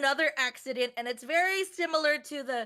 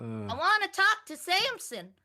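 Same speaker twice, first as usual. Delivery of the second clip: Dave Chappelle impression; 5 semitones higher than usual. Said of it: "are you doing Dave Chappelle from Half Baked".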